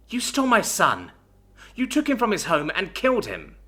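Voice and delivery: mother's wailing cry of blame. A narrator's reading. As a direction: wail it like a spirit from the shadows. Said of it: "like a wailing spirit".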